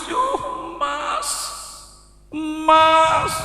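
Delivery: high wailing plea that breaks into a cry; wailing wife. Retold or imitated. Pretty wife wails to her husband's friend, crying. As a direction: play the sobbing young wife calling out.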